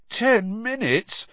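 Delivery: drawn-out dismayed echo; croaked. A narrator's reading. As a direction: croak it in slow disbelief. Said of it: "Harry croaked".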